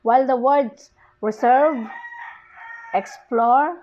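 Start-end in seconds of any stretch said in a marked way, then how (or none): 1.2-3.8 reserve as re-SERVE, explore as ex-PLORE, second syllable strong; second-syllable stress. Shown as a demonstration. Teacher contrasting bisyllabic examples, second syllables of reserve, explore stressed. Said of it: "receive the primary stress on the second".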